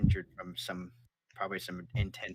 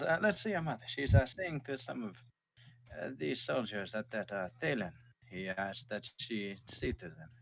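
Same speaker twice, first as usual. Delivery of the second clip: father's voice; 4 semitones higher than usual. Acted. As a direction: tell your son where his mother is. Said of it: "He goes".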